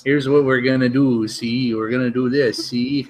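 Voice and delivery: mobster talking round a cigar; cigar in mouth. Pretend. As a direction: speak as if biting a cigar. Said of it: "He's got a big cigar in his mouth".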